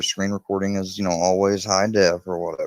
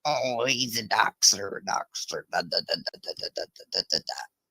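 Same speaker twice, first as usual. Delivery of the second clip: mocking quote; 4 dB quieter than usual. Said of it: "people that were saying".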